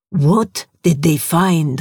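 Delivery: Masri asking the broken survivor, hushed. Acted. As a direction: press him gently for the truth. Masri presses Horst.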